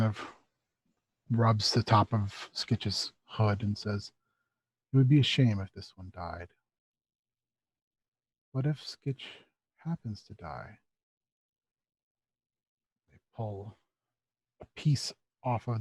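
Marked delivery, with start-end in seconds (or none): 4.9-10.8 low, softly ominous robed figure; robed visitor. Acted. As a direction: drop low and let it fade quietly.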